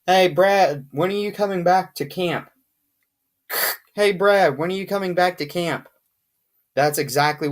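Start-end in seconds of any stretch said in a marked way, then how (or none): 0.1-2.5 lightly acted walkie-talkie call, louder start; mock radio call. Shown as a demonstration. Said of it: "here's a good rendition of it". 3.9-5.9 lightly acted walkie-talkie call, louder start; mock radio call. Shown as a demonstration. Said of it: "here's a good rendition of it".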